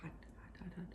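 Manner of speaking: breathy whispers around hot food; mouth full of hot food. Real, not acted. Tasting hot pasta.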